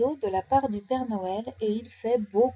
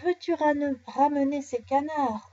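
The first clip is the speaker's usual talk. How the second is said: higher, firmer command; ordering; 4 semitones higher than usual. Acted. Nounours orders his nephew to fetch the ducks, sternly. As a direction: order the cub to bring them back. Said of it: "Ordonne Nounours".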